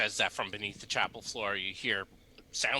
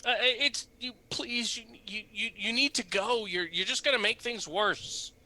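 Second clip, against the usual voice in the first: nervous priest voice; 11 semitones higher than usual. Acted.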